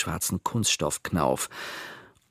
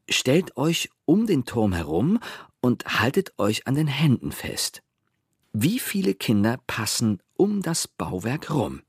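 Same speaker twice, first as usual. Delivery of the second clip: lautes Vorlesen; 5 semitones higher than usual. A narrator's reading. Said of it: "las Pepe die erste Aufgabe laut vor". (laut und langsam vorgelesen, mit gehobener Stimme)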